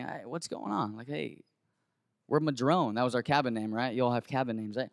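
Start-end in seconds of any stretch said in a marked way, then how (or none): 0.0-2.9 low, very soft calming voice; retold de-escalating murmur; slowing everything down. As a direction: hush the room down gently. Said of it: "I'm just slowing everything".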